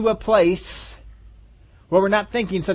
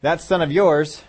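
mock exasperated parent; slower than usual. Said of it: "parents sometimes address their kids".

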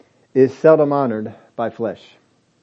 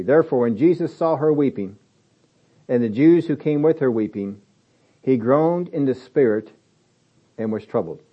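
scripture reading; 2 semitones lower than usual. Shown as a demonstration. Preacher reading the verse aloud to the congregation, measured. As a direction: read it out carefully to the congregation. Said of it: "let's read that over".

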